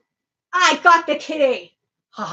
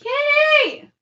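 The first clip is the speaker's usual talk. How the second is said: calling a cat; 9 semitones higher, 5 dB louder than usual. Real, not acted.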